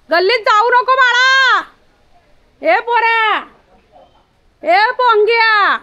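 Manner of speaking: high, loud, drawn-out calls; calling the dogs. Real, not acted. Woman calling her dogs home for the evening, high and loud. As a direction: call the dogs home across the lane.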